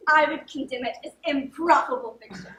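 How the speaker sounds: laughing. Acted. Conspirators laughing at the trick.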